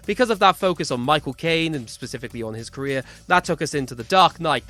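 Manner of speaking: football commentator. Pretend. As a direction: call it like a live match, swelling towards the goal. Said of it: "do my best football commentator impression here".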